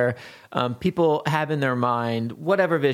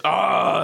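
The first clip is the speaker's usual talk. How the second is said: swaggering, drawn-out "aah"; braggadocio roar; 5 semitones higher than usual. Retold or imitated. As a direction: puff up with an alpha-male "aah". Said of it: "braggadocio, just like this".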